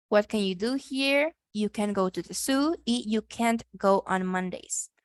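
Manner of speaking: slow, careful English reading; slow model sentences. Shown as a demonstration. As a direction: read the sentences slowly for learners. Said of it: "vamos a escuchar a una persona nativa".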